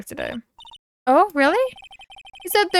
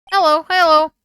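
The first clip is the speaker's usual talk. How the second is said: a light, squawky parrot imitation, higher and louder; 5 semitones higher, 7 dB louder than usual. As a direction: chirp it out like a talking parrot. Voicing the parrot Polly again.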